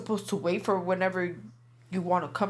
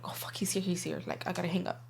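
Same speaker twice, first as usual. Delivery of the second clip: softer, half-whispered panic; hushing into the phone as he walks up; hushed panicked retelling; 2 semitones lower, 6 dB quieter than usual. Retold or imitated. Panicking as he arrives.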